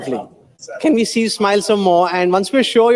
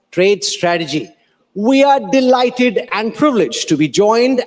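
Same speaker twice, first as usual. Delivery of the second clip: stately conference host introduction; formal announcer. Acted. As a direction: announce the keynote speaker grandly.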